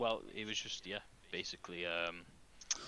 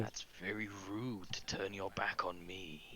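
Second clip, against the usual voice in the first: Morphos. Acted. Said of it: "Morphos respond back to you saying".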